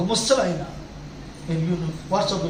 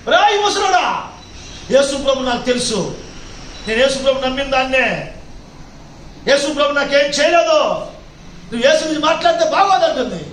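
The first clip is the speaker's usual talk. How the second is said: angry threat; 4 semitones higher, 4 dB louder than usual. Retold or imitated. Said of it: "అంది".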